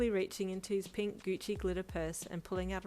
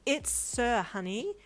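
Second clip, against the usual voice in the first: said sharply; 5 semitones higher, 5 dB louder, slower than usual. Acted. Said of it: "Brian said sharply".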